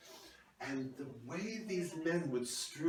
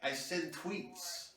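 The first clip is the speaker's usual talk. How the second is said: slow; 5 semitones higher, much slower than usual. Retold or imitated. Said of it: "He said".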